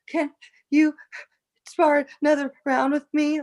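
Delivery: high, tearful plea; a teary request to spar again; crying voice. Retold or imitated. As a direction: ask through retold tears. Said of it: "I'm crying".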